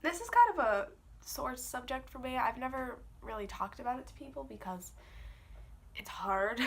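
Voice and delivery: stuffy congested voice; blocked nose. Real, not acted. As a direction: talk through a stuffed-up nose. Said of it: "I'm very congested because I'm sick".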